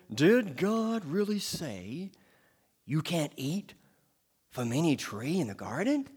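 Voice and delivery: slow, drawn-out serpent voice; slow tempter, dangling the question; sly serpent. Acted. The serpent tempts the woman, slow and drawn out. Serpent's words in Genesis reading.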